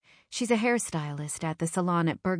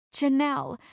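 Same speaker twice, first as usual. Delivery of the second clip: sobbing; 8 semitones higher than usual. Acted. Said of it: "I sob".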